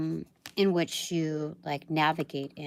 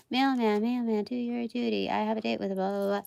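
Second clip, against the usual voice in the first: silly sing-song voice; 4 semitones higher, faster than usual. Pretend. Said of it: "why did I even say it like that?".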